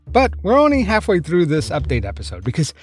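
podcast host voice-over, steady and clear; podcast narration. Acted. Host narrating a true-crime update to listeners, clear read.

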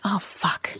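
hushed mock swear; imitating child swearing. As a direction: mutter it under the breath like a little kid. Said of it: "like that".

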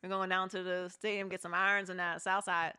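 mild imitation of a Pittsburgh accent; a hint of Pittsburghese. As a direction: lightly put on Pittsburgh twang, words clipped short. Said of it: "Yep, that's how they talk".

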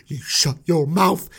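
slow British street warning; Christian Bale. Acted. Moses silencing his accusers, slow British accent. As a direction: draw out the threat in London accent. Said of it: "I'm going with the Christian Bale".

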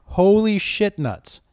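slow, drawn-out disbelief at the salary; mock astonishment. Real, not acted. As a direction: drag it out, stunned by the number. Reacting to huge salary.

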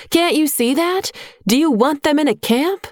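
high, pressing rebuke; scolding plea. A narrator's reading. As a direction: push the girl to see sense, pitched high. Nia scolds Aisha.

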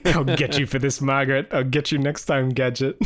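shaking a fist, cartoon villain; sputtering foiled villain. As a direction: vow revenge as the beaten baddie. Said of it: "I liked the little bad guys".

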